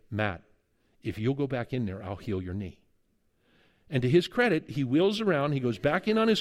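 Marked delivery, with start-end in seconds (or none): 0.1-2.8 low, soft, solemn voice of God speaking. Retold or imitated. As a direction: quietly voice God's promise, low and hushed. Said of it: "he hears God say".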